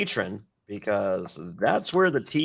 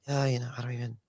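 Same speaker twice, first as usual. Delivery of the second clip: whispering; 3 semitones higher, 3 dB quieter, faster than usual. Retold or imitated. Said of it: "he's whispering to us".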